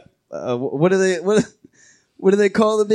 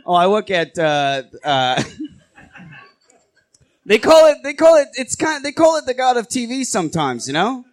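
laughing through it; 6 semitones higher than usual. Acted. Asgardian bit, flustered.

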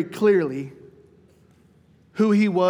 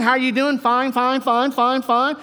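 breezy, higher put-on churchy greeting; mock church small talk; 4 semitones higher, slower than usual. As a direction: toss off the fine fine fines like a reflex. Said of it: "we play the biblical ping pong".

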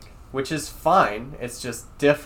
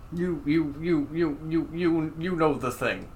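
higher-pitched stammer on a repeated word; Joe Biden; 5 semitones higher than usual. Acted. Host quoting politician's lost train of thought, stammering impression. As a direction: lightly imitate a politician losing his thread. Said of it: "that's the actual Joe Biden quote".

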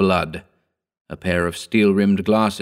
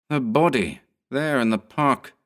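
raised pitch, understated alarm; shaken; 5 semitones higher than usual. Acted. Ed telling Jenkins about the body, shaken. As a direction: point it out haltingly, a touch of alarm. Dazed man points out the body.

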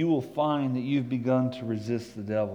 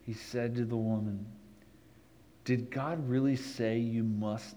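slow, lowered, contemplative scripture reading; 3 semitones lower than usual. Real, not acted. Pastor reading Genesis slowly to the congregation, contemplative. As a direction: let each word of the text sink in. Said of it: "I'm gonna read it kind of slow".

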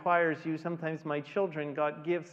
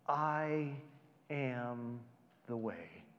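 fading softer and lower word by word, ending hushed; reverent hush; 5 semitones lower, 7 dB quieter, much slower than usual. Acted. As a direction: let it sink to a hush. Jesus' answer, fading softly.

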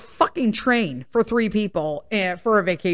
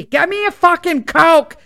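louder, higher bossy yell; mock shouted order; 6 semitones higher, 7 dB louder than usual. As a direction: bark the order across the room. Yelling order to husband leaving.

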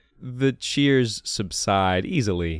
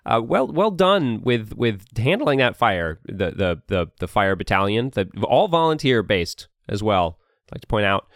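lightly voiced pompous duke; 4 semitones higher, faster than usual. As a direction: speak like a smug noble addressing crowds. Duke Paltry's speech to crowd.

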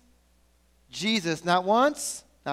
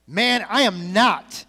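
louder, slow, insistent no; loud slow denial; 5 dB louder, slower than usual. Acted. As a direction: deny it deliberately. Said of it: "Peter replied".

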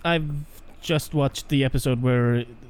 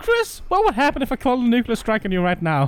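laughing; 5 semitones higher than usual. Pretend. Mock psycho hypothetical question, laughing.

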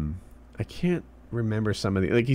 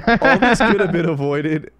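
laughing while reading; 8 semitones higher, 7 dB louder than usual. Real, not acted.

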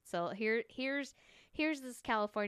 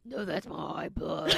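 mock outburst; 3 semitones lower, 7 dB louder, slower than usual. Joke song turns into mock cry.

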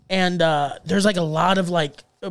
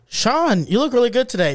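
mock Gandhi; 5 semitones higher than usual. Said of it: "That was Gandhi".

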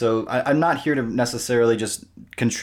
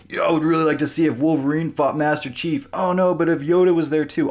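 excited; 6 semitones higher than usual. Retold or imitated. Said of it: "and said".

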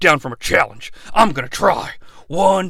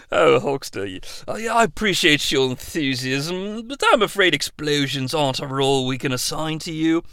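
much softer, quick soothing explanation; Christopher Nolan; 3 semitones lower, 7 dB quieter than usual. Acted. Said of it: "Christopher Nolan".

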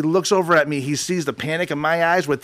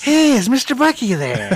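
imitating the caller; 7 semitones higher than usual. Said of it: "He calls about".

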